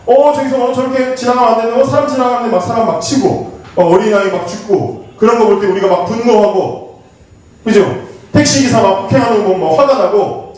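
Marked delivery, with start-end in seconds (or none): 0.1-5.1 outraged viewer. Retold or imitated. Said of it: "욕하면서 보잖아요".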